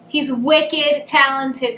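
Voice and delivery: slow, broad Boston accent on wicked. Shown as a demonstration. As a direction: lean into a Boston accent, slowly. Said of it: "with my Boston accent".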